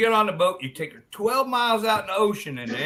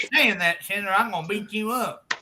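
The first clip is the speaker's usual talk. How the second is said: harelip friend; 3 semitones higher than usual. Acted. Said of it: "a friend who's a hair lip".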